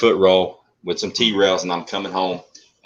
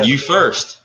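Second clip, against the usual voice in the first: laughing; 6 semitones higher than usual. Retold or imitated. Laughing retelling of a standoff.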